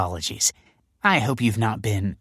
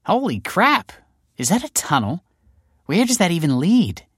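higher, thrilled exclamation; excited; 11 semitones higher than usual. A narrator's reading. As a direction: gasp it out eagerly. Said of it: "looked excitedly".

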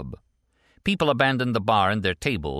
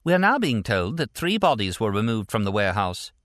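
lightly voiced, higher newsreader; formal bulletin read, pitched up; female news anchor; 5 semitones higher than usual. A narrator's reading. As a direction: deliver a breaking update like a TV anchor. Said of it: "The female anchor chimed in".

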